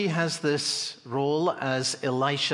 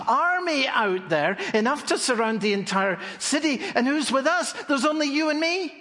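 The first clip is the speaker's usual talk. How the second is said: higher, rushing, alarmed protest; panicked servant; 8 semitones higher than usual. Pretend. Frightened servant tells Elisha about the army, panicked. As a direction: blurt it out in growing panic.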